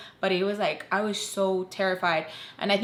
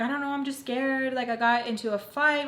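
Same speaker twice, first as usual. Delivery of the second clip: higher-pitched, mildly upset retelling; retold freak-out; 5 semitones higher than usual. Daughter freaking out with her mom, retold upset. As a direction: imitate yourself fretting to mom. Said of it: "freak out with my mom".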